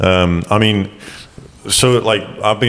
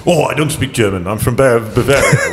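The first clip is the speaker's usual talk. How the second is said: higher, put-on insistence; mock affronted protest; 4 semitones higher than usual. Bavarian insisting they don't speak German, mock affronted. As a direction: lightly imitate someone proudly correcting you.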